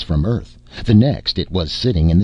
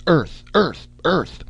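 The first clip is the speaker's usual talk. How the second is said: rallying cry; 5 semitones higher than usual. Acted. Daker rallying crew to visualize.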